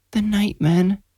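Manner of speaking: put-on high, hushed, dazed boy; eerie child voice. A narrator's reading. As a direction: say it like a child in a trance. Sleepwalking boy replies.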